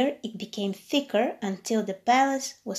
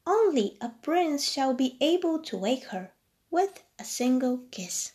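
gentle fairy; 3 semitones higher than usual. Acted. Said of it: "she said".

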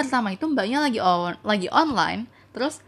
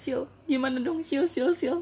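lightly higher, nagging imitation; mock pestering friend; 5 semitones higher than usual. Friend begging her for dating advice, mock pestering. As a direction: pester her by repeating the name.

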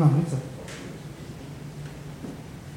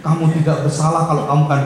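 louder, laughing through the quote; 6 semitones higher, 6 dB louder than usual. Retold or imitated. Preacher quoting the dying man to his wife, laughing. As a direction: tease the husbands while quoting.

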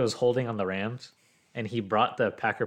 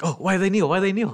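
imitating the girlfriend, higher and louder; puzzled girlfriend; 9 semitones higher, 5 dB louder than usual. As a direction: mimic her baffled questions, pitched up. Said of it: "And she's like".

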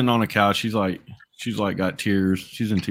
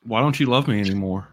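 mock wounded plea. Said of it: "I'm like".

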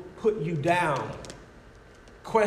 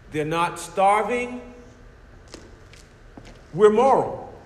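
proud atheist; 2 semitones higher, 4 dB louder than usual. Acted. Preacher voicing a proud atheist.

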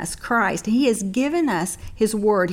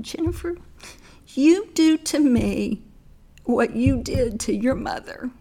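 tender voice of God; 4 semitones higher than usual. Acted. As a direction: say it tenderly, slowly. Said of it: "the Lord so tenderly said".

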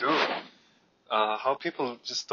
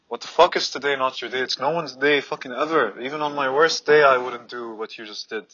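retold rant; 2 semitones higher, 5 dB louder than usual. Confronting the litterer.

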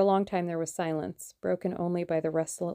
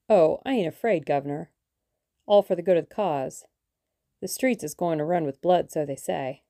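louder rough working-class boast, enjoying the blood; grim relish; 5 dB louder than usual. Acted. Hired thug boasting to the German about street riots, grim relish. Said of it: "He spoke with a grim relish".

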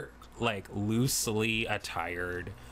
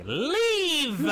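yelled leave; 4 dB louder than usual. Acted. Kicks chair, yells leave.

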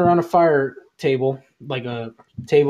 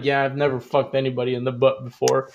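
lightly imitated coworker, a little lower; slightly lower, understated retold quote; 4 semitones lower, 4 dB quieter than usual. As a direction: mimic his low-key admission. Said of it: "that's how he said it too".

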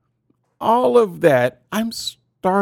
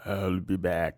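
much lower and softer, ominous; dramatic movie voice; 10 semitones lower, 9 dB quieter than usual. Pretend. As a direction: growl it like a movie line. Host echoes in deep dramatic voice.

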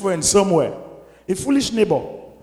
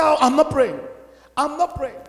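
mock refusal; 6 semitones higher than usual. Mocking refusing believer.

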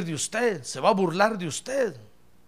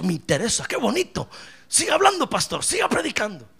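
lightly voiced keen listener, jumping higher midway; mock eager churchgoer; 3 semitones higher than usual. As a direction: imitate a delighted congregant egging on the pastor. Voices an eager congregant to pastor. (imitando a un feligrés encantado)

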